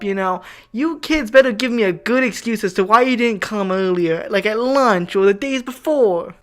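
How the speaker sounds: mocking whiny teacher. Mimicking the teacher scolding late students, lightly whiny. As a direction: imitate the complaining teacher with a hint of Valley Girl trill. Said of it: "he had that White Valley Girl trill to his voice".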